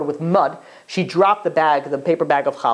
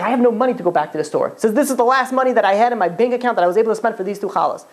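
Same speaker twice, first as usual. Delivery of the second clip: fast, slightly raised, mildly upset pleading; retold tearful outburst; 6 semitones higher, faster than usual. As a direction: imitate a tearful confession spilling out quickly. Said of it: "She starts crying".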